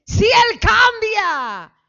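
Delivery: high, loud complaining wife; mocking the wife's complaint. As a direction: whine it like a fed-up wife blaming her husband. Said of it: "Nos enfrentamos al esposo y decimos". (esposa quejándose a gritos del esposo)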